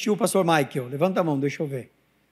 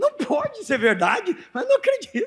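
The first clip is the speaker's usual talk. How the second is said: very high-pitched, agitated, worked-up indignation; 13 semitones higher than usual. Acting out Jesus reacting to Mary, imitating an agitated, indignant Jesus. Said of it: "fez a mesma coisa".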